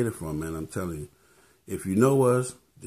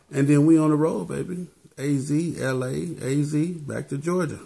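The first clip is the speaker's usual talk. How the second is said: higher, louder, hyped shout-out; 7 semitones higher, 3 dB louder than usual. Real, not acted. Vlogger announces his tour stops to fans, hyped up. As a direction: pump the crowd up about the tour.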